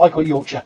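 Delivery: "Yorkshire" with a short "-sher" ending; own British pronunciation. Shown as a demonstration. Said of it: "But I call".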